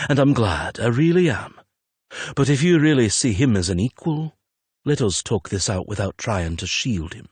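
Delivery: put-on an older father pressing his friend about his son; Marco's voice. A hint of a wry father confronting his son's lover.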